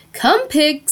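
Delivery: singsong call to livestock; coaxing call. A narrator's reading. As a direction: coax the animal over with a drawn call. Farmer coaxes pig to the pail.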